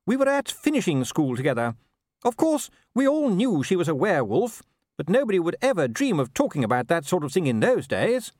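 high-pitched, gossiping wife; animated, swooping high voice of a wife; Sybil. A narrator's reading. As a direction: chatter about an old school friend, pitched high. Voicing Sybil gossiping about old schoolfriend.

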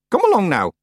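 impatient witch. Acted. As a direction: press them for an answer as a witch. Witch presses for an answer.

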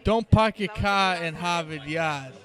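Boston accent. Shown as a demonstration. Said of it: "talk to us in the Boston vernacular".

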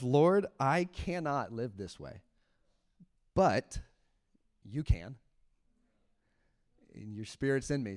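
slow, soft prayer of surrender; quiet surrendering prayer. Retold or imitated. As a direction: pray it gently, giving up. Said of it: "I got to the prayer of".

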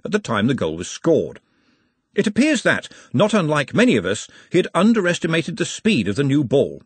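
brisk match commentary read; live commentary. Acted. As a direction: call the match like a radio commentator.

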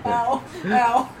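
laughing through pain. Real, not acted. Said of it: "It hurts to laugh".

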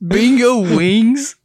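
slow, high, laughing disbelief; drawn-out baffled question through a laugh; incredulous. Real, not acted. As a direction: bingo wings asked back in amused disbelief. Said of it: "Like you acquire wings from bingo".

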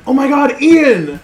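rabid fan. Pretend. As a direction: play a starstruck superfan spotting him. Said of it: "I'll pretend like I'm a rabid fan".

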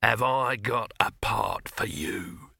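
loud summons, then slow salesman's pitch; calling out. Acted. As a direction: hail the lad like a brash film boss. Boss calls Victor over.

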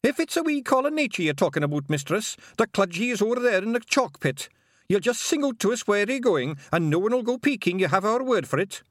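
a tiny dutiful Feagle, proud and earnest; eager pixie. A narrator's reading. Attendant Feagle explains.

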